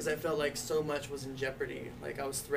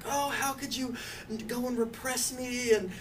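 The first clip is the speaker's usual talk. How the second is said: high, heated mock venting; 8 semitones higher, 4 dB louder than usual. Son retelling venting at mom, higher and louder. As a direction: replay the angry phone rant. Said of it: "venting at her".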